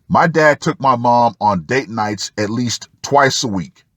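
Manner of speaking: ordinary talk, nothing marked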